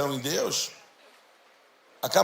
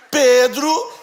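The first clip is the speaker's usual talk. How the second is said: stretched out and louder, slow motion; 5 semitones higher, 9 dB louder than usual. Shown as a demonstration. Pastor spelling out the name slowly for the congregation, in slow motion. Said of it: "em câmera lenta".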